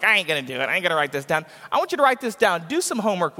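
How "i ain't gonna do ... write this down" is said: stubborn refusal. Retold or imitated. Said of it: "Some of you are like".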